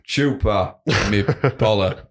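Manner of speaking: very slow, savoured; slow drawn out. Pretend. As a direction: stretch every syllable out. Savouring the rude phrase.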